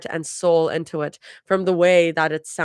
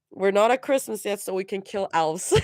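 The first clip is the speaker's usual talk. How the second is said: laughing; 2 semitones higher than usual. Real, not acted.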